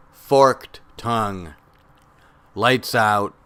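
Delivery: spare spoken-word delivery with long pauses between phrases; poetry reading. Acted. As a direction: let each image stand alone. This poem is, uh, for Mark.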